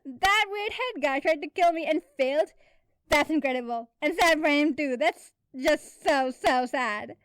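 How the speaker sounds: loud, high, laughing rant; hysterical laughing. A narrator's reading. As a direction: crack up while talking it through. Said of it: "laughing hysterically".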